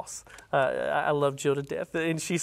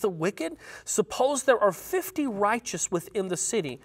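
earnest plea; 5 semitones higher than usual. Acted. Reading Abraham's plea to God.

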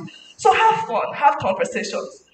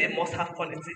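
quiet emphasis on must; 6 semitones lower, 10 dB quieter than usual. Shown as a demonstration.

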